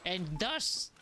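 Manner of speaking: hammed-up pitch about worms and poop; mock earnest storyteller. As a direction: spin the gross tale like a solemn expert. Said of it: "I have to stop".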